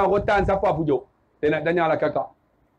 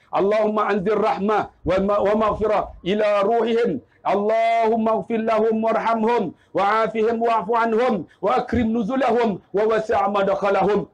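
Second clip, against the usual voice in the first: steady Arabic supplication; prayer recitation; 2 semitones lower than usual. Real, not acted. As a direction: recite evenly as a prayer for the dead. Recites prayer for dead parents. (bacaan doa untuk arwah)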